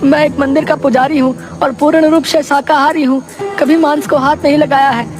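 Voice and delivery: very high-pitched, frightened priest voice; terrified pleading. Acted. Priest begging a cannibal to let them go, terrified. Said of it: "बुरी तरह डर जाते हैं".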